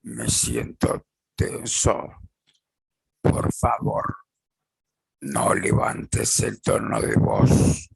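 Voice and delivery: voz más grave, lenta y serena; tono bajo y calmo. Shown as a demonstration. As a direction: decilo tranquilo, sin subir la voz. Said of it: "con tono de voz más bajo y calmo". (ejemplo asertivo dicho con voz grave y calma)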